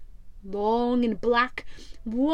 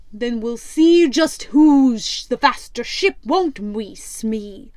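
louder, gruff pirate captain scoffing; Black Stash; 6 dB louder than usual. Acted. Pirate captain mocks the rival ship, loud and scornful.

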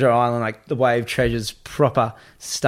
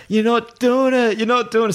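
re-enacted protest, raised pitch; retold insistent refusal; 11 semitones higher, 3 dB louder than usual. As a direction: act out mates putting their foot down. Mates refusing his angry demand.

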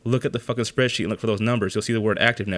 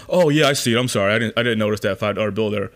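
mock dumb clerk; 4 dB louder, faster than usual. Mocking the service rep who missed the warranty, hammed-up clerk. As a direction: ham up a clueless clerk finally seeing it. Mocking the employee's sudden realisation.

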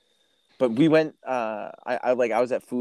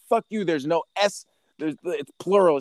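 mock outrage; 7 semitones higher than usual. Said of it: "I was like".

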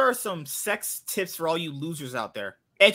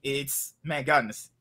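ordinary talk

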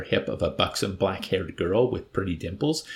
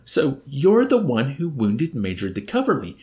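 higher, louder, indignant exclamation; horrified indignation; 6 semitones higher, 5 dB louder than usual. A narrator's reading. Nately confronts the man who wounded the major, horrified and indignant. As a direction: accuse him, appalled. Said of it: "he exclaimed in horrified indignation".

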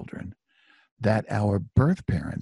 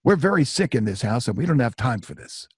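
mildly imitated angry brush-off, starting high; ripping back; 4 semitones higher, 3 dB louder than usual. Woman dismissing the unwanted caller, retold irritated retort. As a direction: snap back like the annoyed woman. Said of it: "she rips right back at me".

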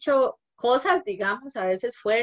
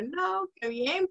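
delighted; 9 semitones higher, much slower than usual. Retold or imitated. Mother delighted at child's words.

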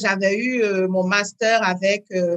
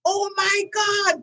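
much higher, slow mock "Oh my God!"; delighted foreigner; 9 semitones higher, much slower than usual. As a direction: stretch out their amazement. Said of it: "j'étais là".

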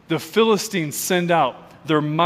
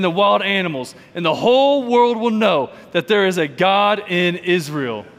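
solemn proclamation. Acted. David's speech over music.

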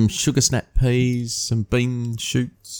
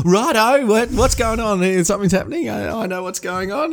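dog voice; 10 semitones higher than usual. Retold or imitated. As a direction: voice the dog getting all worked up. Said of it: "he's like".

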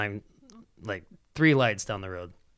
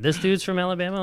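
high, incredulous question; astonished question with raised pitch; retold disbelief; 8 semitones higher, 4 dB louder than usual. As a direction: relive being amazed, pitched up. Repeats own amazed reaction.

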